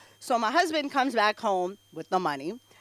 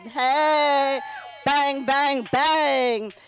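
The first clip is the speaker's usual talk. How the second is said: catchphrase call; much slower than usual. Acted. To the audience introducing herself, punchy catchphrase. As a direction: fire it out like a catchphrase.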